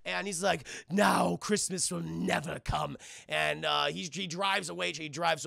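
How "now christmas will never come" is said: slow, gloating threat; lightly hammed-up villain; villainous postman. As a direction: draw it out like a cartoon villain. Villain postman gloats over captive.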